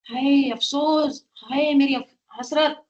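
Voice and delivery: slow, drawn-out mock wail of regret; a slow, understated cry of hasrat; slow lament. Shown as a demonstration. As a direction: sigh it out like someone full of remorse. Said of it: "तुम कैसे बोलोगे?".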